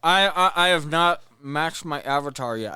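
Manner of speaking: talking around chewing gum; words round a piece of gum. Real, not acted. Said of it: "I just put gum in my mouth".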